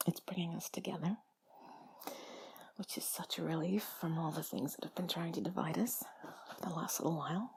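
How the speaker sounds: normal talking voice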